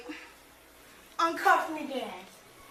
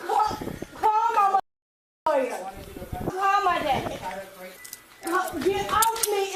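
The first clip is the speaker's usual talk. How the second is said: panicked plea; 4 semitones higher, slower than usual. Real, not acted. Woman pinned down, panicked.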